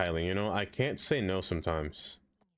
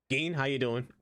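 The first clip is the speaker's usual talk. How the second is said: a squeaky, cracking yell of the name; aggressive greeting with voice crack; 3 semitones higher than usual. Acted. Greeting a chatter with an aggressive cracking yell. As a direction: shout the name so the voice cracks up high. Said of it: "my voice cracks every time I say Geen aggressively".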